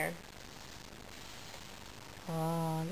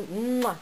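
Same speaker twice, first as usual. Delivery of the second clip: put-on baby kisses; 4 semitones lower than usual. Shown as a demonstration. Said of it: "blow kisses?".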